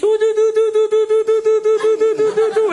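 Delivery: put-on high, loud sing-song baby talk; cooing to babies. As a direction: coo at the babies to hush them. Father coos to his babies.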